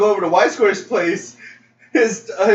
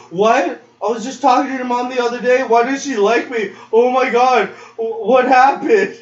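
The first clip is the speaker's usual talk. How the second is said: higher, flustered imitation of a gullible friend; mock alarm; 5 semitones higher than usual. Imitating a friend who took a lyric personally, mock alarm. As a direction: panic in mock disbelief, pitched up.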